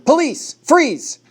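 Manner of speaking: high, loud command to freeze; police shout. A narrator's reading. Officer confronts the armed man, loud shout. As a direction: bark the order at the gunman. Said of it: "I heard Jacob shout".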